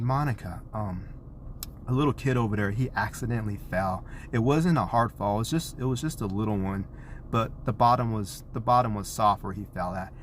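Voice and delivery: put-on calm, understated explanation to a child; controlled reassuring tone. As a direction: keep the tone even and soothing. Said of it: "it's all about tone of voice".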